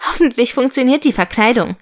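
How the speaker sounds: quick, slightly nervous hope; a bit nervous. Acted. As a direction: rush it out with a touch of nerves. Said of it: "Sie klang ein bisschen nervös". (ein bisschen nervös, schnell gesprochen)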